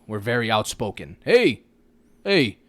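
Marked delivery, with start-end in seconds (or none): 1.2-2.6 mock rallying call. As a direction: rouse the crowd, a bit hammed-up. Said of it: "the generation now".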